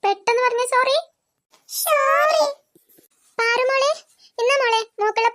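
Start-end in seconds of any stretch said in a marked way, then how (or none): 1.7-2.4 a small sorry choked with crying; tearful sorry. Acted. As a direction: say it through tears. Children apologise to crying Painkili. (കരഞ്ഞുകൊണ്ട് sorry)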